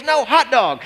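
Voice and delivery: put-on high childish refusal; mock tantrum voice, pitched high; upset toddler. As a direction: imitate a toddler changing his demand. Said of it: "He goes".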